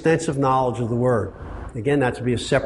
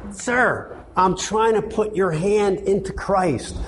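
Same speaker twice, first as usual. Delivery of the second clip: higher, pleading counsel; earnest appeal; 5 semitones higher than usual. Retold or imitated. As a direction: urge him toward Christ. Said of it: "And I tell you".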